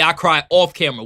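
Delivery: "off" punched as the contrast; stress on "off". Shown as a demonstration. Streamer acting out the player's contrast, stress on "off". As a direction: hit the word "off" before camera. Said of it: "Kelsey Mitchell stressed the word on".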